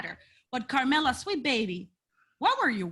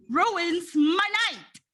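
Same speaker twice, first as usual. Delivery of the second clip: dragged out; 6 semitones higher, much slower than usual. Acted. Dramatic complaint about Seth Rollins.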